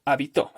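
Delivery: habitó stressed on final TÓ; stress on last syllable. Shown as a demonstration. Teacher listing a tritonic word, habitó stressed on TÓ. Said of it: "Esa es una palabra tritónica".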